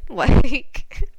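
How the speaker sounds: laughing disbelief. Real, not acted. Reacting to August's lion trick, laughing disbelief. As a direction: laugh while objecting. Laughs at the cruelty just told.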